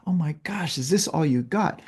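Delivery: high-pitched imitation of a gleeful winner; mock amused taunt. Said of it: "You're laughing, going".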